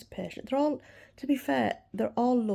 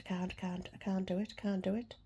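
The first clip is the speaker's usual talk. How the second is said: panicked crying; 3 semitones lower, 8 dB quieter than usual. Retold or imitated. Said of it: "I was crying by then".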